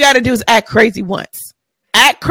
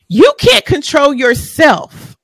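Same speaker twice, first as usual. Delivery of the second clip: shouted slowly, each word pushed out; 3 semitones higher, slower than usual. Real, not acted. Repeating her point to the guests, shouted slowly.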